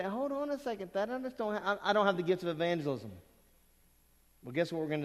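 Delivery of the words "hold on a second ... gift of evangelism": higher, flustered objection that speeds up into a rush; imitating a reluctant churchgoer. Preacher voicing a listener who doubts he can evangelize, higher and hurried. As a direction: play the hesitant listener making excuses. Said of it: "You say".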